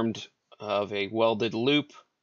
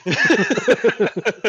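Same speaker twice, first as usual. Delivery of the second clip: laughing yeah; 10 semitones higher, 9 dB louder than usual. Real, not acted. Loud laughing agreement.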